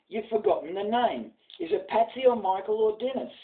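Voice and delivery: jovial Irish priest. Acted. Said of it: "says he".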